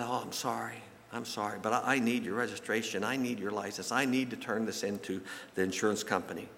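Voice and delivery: soft, apologetic but insisting; acted apology. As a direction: quietly reason with an upset driver. Man answers the crying driver in story.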